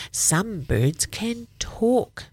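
put-on slow, breathy whisper of an old lady. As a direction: whisper it like a frail old woman. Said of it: "her voice is so very quiet".

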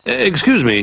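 high, polite cub voice; high small bear asking politely; Little Bear voice. Acted.

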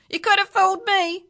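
high, loud, fast retort; scornful parrot. A narrator's reading. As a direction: fire it back as a cheeky bird. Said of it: "said the parrot".

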